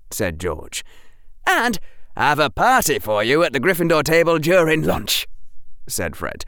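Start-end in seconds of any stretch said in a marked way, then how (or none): 1.4-5.3 high, bright teasing twin; playful schoolboy teasing; cheerful twin voice. Acted. Fred voiced in story.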